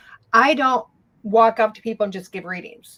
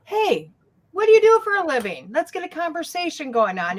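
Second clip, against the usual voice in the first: friendly small talk; 5 semitones higher than usual. Pretend. Acting out chatting up a stranger.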